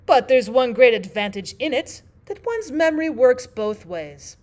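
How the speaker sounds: loud, high storybook Queen; imperious Queen. Acted. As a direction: proclaim it as the Queen.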